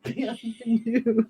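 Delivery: slow, drawn-out mock French welcome; hammed-up French accent; fake French greeting. Dwarf greeting the party in mock French. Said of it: "I don't think he's Spanish".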